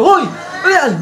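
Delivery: high, bold call-out; mock challenge. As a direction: challenge the bully. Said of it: "Sabi ko". (matapang na pasigaw)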